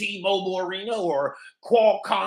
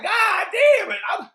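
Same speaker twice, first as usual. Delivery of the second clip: frustrated shout; 10 semitones higher than usual. Retold or imitated. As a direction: blow up in disgust. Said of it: "I'm like".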